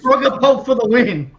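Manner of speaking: high, loud victory shout; excited cheer. Real, not acted. Player cheers on the attack, loud excited shout. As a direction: call it out like a rallying cry.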